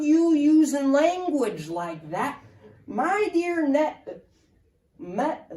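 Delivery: lightly voiced old-timer reminiscing; Ed rambling about his late wife's broom; old man rambling. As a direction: fumble for the wife's name like a forgetful geezer.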